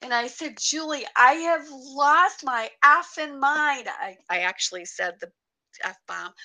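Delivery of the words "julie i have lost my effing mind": high, loud, stunned exclamation; retold distraught outburst. Telling friend Julie she has lost her mind, distraught outburst. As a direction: blurt it out loudly, high and overwhelmed. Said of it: "we're sitting there bawling our eyes".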